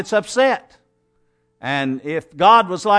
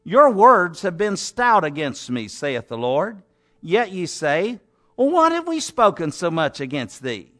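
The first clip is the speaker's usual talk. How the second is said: measured, declaiming Bible reading; scripture reading. Acted. Preacher reading God's words to the congregation, declaiming. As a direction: read God's words with weight. Long Malachi passage read aloud.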